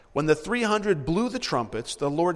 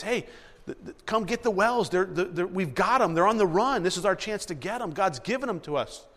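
urgent excited message; 3 semitones higher than usual. Retold or imitated.

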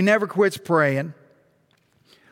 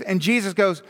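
ordinary talk, nothing marked

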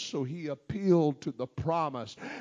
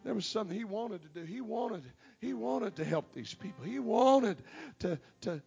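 quiet; 2 semitones higher, 5 dB quieter than usual. Real, not acted. Drops voice after climax.

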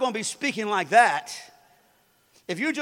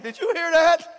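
awed wave; 8 semitones higher, 8 dB louder than usual. Acted. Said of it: "the wave's like".

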